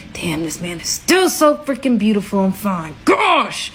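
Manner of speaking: gushing, shouting how fine he is; swooning exclaim. Retold or imitated. Inner swooning over his looks.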